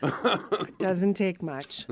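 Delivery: laughing. Real, not acted. Teasing co-host, laughing.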